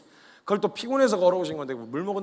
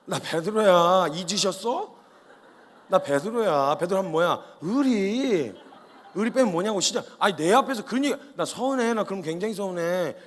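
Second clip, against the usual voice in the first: drawn-out, swaggering hurt loyalty; hammed-up bravado; 2 semitones higher, 3 dB louder, slower than usual. Peter reminding Jesus of his loyalty, hammed-up bravado. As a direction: play up the affronted loyal sidekick.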